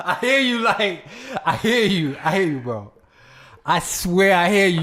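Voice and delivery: high, loud, laughing reassurance.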